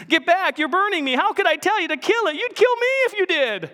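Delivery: high, loud, fast cry of pain; panicked ghost. Acted. Ghost burned by the angel, high frantic protest. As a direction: shrink back as if burned.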